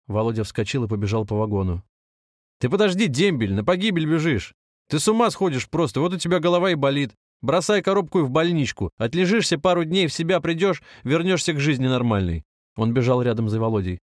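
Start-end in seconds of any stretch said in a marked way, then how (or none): 2.6-12.4 higher, insistent, running alongside; stranger pleading. A narrator's reading. Попутчик уговаривает бегущего дембеля, голос выше и настойчивее. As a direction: coax him back, voice lifted.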